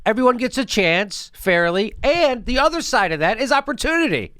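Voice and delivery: lightly mocking a vague politician. Mocking a Democrat's vague answer. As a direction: parrot the empty answer back. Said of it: "Why do they talk like this?".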